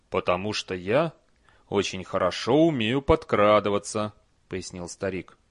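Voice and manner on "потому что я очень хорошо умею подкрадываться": put-on a touch of a calm old man; lightly voiced old hero; old barbarian voice. Old Cohen answers.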